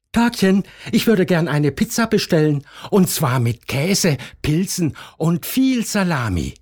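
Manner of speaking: high, fast, eager customer; bubbly phone order voice; chirpy caller voice. Acted.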